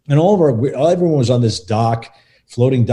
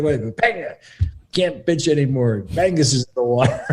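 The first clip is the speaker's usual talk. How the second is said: mock whiny actor; 3 semitones higher than usual. Mocking Peng's voice.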